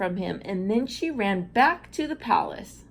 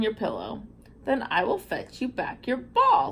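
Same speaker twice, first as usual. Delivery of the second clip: a playful frog croaking ribbit between pleas; lightly voiced frog. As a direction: coax her like a lonely little frog. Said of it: "said the frog".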